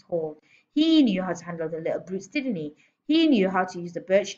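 lightly voiced domineering headmistress; bullying headmistress, scornful. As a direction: lecture scornfully with punched openings. Headmistress figure scolds teacher.

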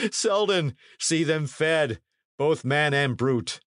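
high, hearty knight chuckling through his words; laughing knight. A narrator's reading. Knight laughing at a soldier's retort, high and hearty. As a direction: laugh off the jibe, lordly and amused. Sir Daniel laughs at Clipsby.

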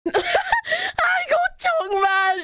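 high, wailed ajumma imitation; mock yelling. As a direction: parody a scolding shriek, starting high. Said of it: "she was just yelling at us".

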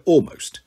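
"almost" set apart and stressed; pointed emphasis on "almost". A narrator's reading. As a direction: lean on the word "almost". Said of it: "I stress the word".

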